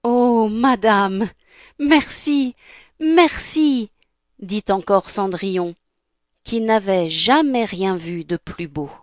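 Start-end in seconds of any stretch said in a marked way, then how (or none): 0.0-3.9 slow, lifted, grateful thanks; grateful delight. Acted. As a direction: thank the fairy, drawing out each word. Cinderella thanks the fairy, delighted. (reconnaissance émerveillée)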